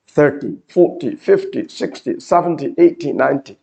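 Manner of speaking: every number from "thirty" to "ninety" stressed on the first syllable. Shown as a demonstration. Teacher recapping the rule, "thirty" to "ninety" stressed on first syllables. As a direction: count "thirty, forty, fifty" onward, weight on each opening syllable. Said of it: "if you hear the stress in the first syllable".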